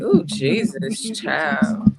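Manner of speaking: high wailing sob, dragged out slow; hammed-up teary plea of a good woman; imitating the crying woman on Facebook live; mock crying woman. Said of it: "I was like".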